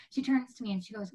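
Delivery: usual speaking voice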